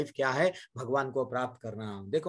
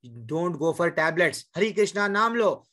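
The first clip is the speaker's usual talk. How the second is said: firm advice; slower than usual. Retold or imitated. Mataji telling a depressed woman, firm advice. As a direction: urge them firmly, "हरे कृष्णा नाम लो" with नाम stressed. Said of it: "पूजा माता जी कोई पूछे तो क्या बोले".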